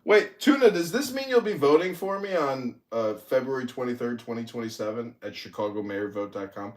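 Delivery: teasing in a put-on English accent; mock English accent. Taunting Tuna Boy while plugging his campaign, in a fake English accent. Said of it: "my English accent is so mocking".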